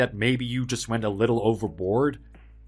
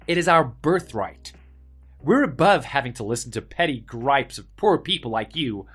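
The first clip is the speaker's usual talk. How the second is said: arrogant; 4 semitones higher than usual. Acted. Arrogant rich villain boasting.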